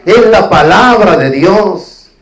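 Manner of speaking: "Es" hit hard, the line said slow and loud; stress on ES. Shown as a demonstration. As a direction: lean on "Es" and slow down. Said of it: "el hermano es la palabra de Dios". (recalca "Es", despacio y fuerte)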